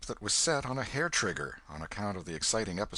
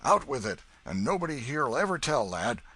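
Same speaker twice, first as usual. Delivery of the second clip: put-on hearty old Welshman, louder; old man; 6 semitones higher, 6 dB louder than usual. Old Welshman urges Huck to tell, hearty. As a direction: coax the boy to speak.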